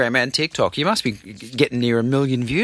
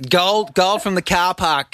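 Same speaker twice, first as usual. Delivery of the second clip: exaggerated Aussie; 4 semitones higher than usual. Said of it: "Can you say car park".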